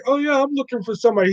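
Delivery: high, fast playful line; light movie impression; Ving Rhames quote. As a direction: toss off the flirt line quickly. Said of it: "Ving Rhames is like".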